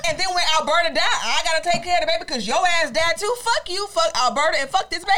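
mock outraged rant at the cheating husband; angry scorned wife. Wife cursing out cheating husband and his baby, mock furious.

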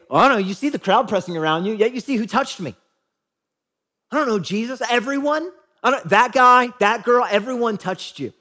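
flustered, exasperated shrug of a reply; comical clueless disciples. Retold or imitated. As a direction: play the baffled disciples, voice jumping up at "everyone". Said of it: "it's kind of comical".

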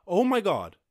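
loud, high exasperated cry; frustrated outburst. Real, not acted. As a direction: let it burst out in frustration.

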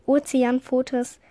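"Ozeanpfotes" slowly, carefully sounded out; careful pronunciation. Real, not acted. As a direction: work your way slowly through "Ozeanpfotes". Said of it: "kann das nicht aussprechen". („Ozeanpfotes“ langsam und mühsam ausgesprochen)

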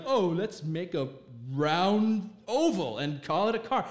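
mock dim-witted car designer, slow and drawn out. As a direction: drag the words out in mockery. Mocking designers of modern cars.

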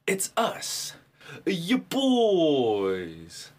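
hammed-up Russell Brand greeting to his fans; mock Russell Brand accent. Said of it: "I shoulda let you do the Russell Brand accent".

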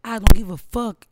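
loud, blunt I don't give a fuck; shouting her defiance at critics; defiant shout. Real, not acted. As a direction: throw it out loudly.

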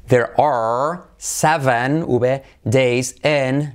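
"There are seven, V, days in" said slowly, word by word; slow model sentence. Shown as a demonstration. Teacher slowing the sentence down for students. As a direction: spell it out slowly for learners.

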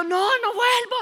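high-pitched refusal. Retold or imitated. Girl refuses to go back inside.

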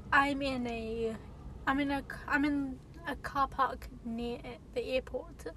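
talking while winded; out of breath. Real, not acted. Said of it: "I'm out of breath".

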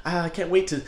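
hammed-up overeager date; yappy chihuahua. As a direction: yap it out like an excited little dog. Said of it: "like a little chihuahua".

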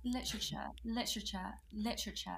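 practising a British accent word by word; put-on British pronunciation; British accent warm-up. Shown as a demonstration. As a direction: get into a British accent, carefully. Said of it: "I gotta get into my British accent".

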